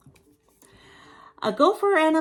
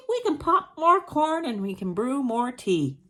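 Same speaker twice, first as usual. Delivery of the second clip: squeaky mouse, easing off; 5 semitones higher than usual. Acted. Mouse offering the bear more treats, squeak fading out. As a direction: start high, then come down gently. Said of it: "Mouse squeaks".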